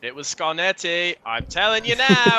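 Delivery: loud, high accusing outburst; heated shout. Acted. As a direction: yell the accusation, certain of it.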